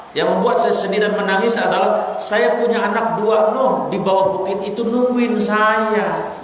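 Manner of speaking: put-on a mother deer begging for her young; tearful pleading deer. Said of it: "Sampai nangis dia".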